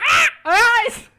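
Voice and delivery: loud high shriek of pain; pained cry. Acted. Seventh blinded by the spell, shrieking in pain. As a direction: scream as if blinded. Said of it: "you hear Seventh go".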